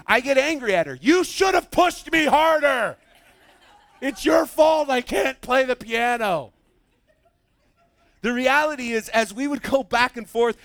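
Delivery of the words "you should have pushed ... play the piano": mock blaming. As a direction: whine the blame with a grin.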